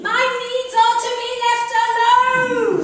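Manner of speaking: loud, high, fed-up yell; indignant shout. Acted. Tells the doctor's surgery caller off, loud indignant shout. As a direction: blast it back at the caller.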